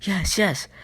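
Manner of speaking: put-on a kid grabbing at a prize; geeked out. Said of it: "geeked out".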